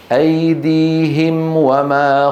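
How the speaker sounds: very slow chanted recitation; recitation for repeating. Shown as a demonstration. Teacher reciting a line for the class to repeat after. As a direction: recite slowly so the class can echo. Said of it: "أقرأ وتقرؤون خلفي بصوت واحد".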